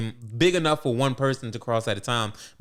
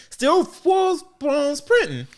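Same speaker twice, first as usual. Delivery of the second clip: mock dramatic; 13 semitones higher, 4 dB louder, slower than usual.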